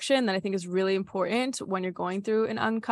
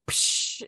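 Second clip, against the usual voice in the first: imitated breaking. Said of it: "patterns breaking".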